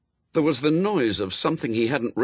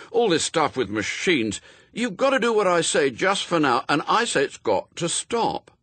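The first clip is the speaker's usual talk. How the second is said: put-on higher, emphatic young character; insistent Adam; 7 semitones higher, 3 dB louder than usual. A narrator's reading. Adam telling Death it must stop, insistent. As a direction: lay down the law, building in pitch.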